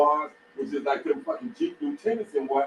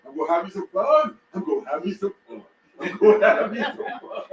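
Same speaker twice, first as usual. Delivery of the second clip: Bill Duke quote. Retold or imitated. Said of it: "what Bill Duke said, Predator".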